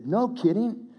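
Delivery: high-pitched, incredulous retold exclamation; amazed biker reaction. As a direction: mimic his amazement, pitched well up. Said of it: "he goes like this".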